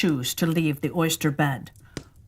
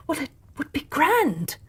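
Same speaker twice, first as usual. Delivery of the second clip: walrus voice; 7 semitones higher than usual. Acted.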